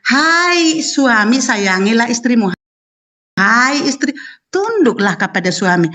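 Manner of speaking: reciting scripture slowly, word by word; the wife quoting the verse slowly to her debate opponent; slow verse recitation. Shown as a demonstration. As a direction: lay out each phrase of the verse with slow weight. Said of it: "Hai, itu tentang pernikahan".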